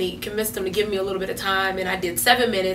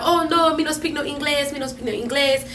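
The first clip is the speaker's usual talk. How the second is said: hammed-up Hispanic accent; a mock Hispanic accent, broken English; 6 semitones higher than usual. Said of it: "is that your Hispanic accent right there".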